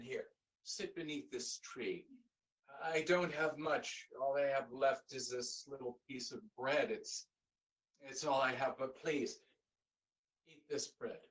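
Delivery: generously giving the last bread; kind offer. Acted. Young man offers the tired old man bread, gently.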